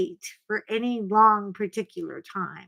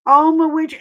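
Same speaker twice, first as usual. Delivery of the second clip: Oma Winfrey called higher and louder; louder called name; 6 semitones higher, 9 dB louder, faster than usual. Shown as a demonstration. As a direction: call out Oma Winfrey like a name across a room. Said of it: "She sounds like a housekeeper".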